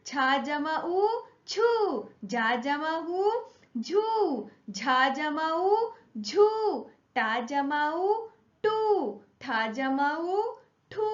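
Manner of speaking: sing-song spelling chant, each syllable called out; lilting teacher recitation, rising on each new syllable; classroom syllable drill. Shown as a demonstration. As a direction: chant the sounds for children to echo.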